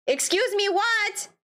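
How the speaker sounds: high-pitched, incredulous question; exasperated disbelief. Acted. Player stuck in a dialogue loop, exasperated.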